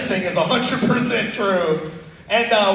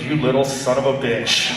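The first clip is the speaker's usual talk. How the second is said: angry dad; 8 semitones lower than usual. Retold or imitated. Angry dad on phone call.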